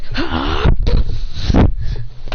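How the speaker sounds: loud breathy rush noise; attack sound effect. Acted. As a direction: imitate a rushing attack with the mouth. Imitates rushing attack.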